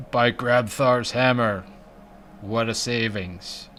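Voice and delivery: slow, solemn alien actor voice; movie quote voice. Pretend. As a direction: ham up a dramatic sci-fi line. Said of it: "You don't like voices?".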